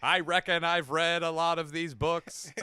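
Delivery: deliberate alien drawler; Alien Sling Blade. Acted. Friends riffing on alien monologues, Alien Sling Blade voice. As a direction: intone it like a deadpan alien drawler. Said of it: "Alien Sling Blade".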